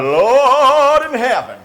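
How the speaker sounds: loud, slow, amazed; drawn-out gasp of awe; awed exclamation. Real, not acted. Reacting to croque madame reveal.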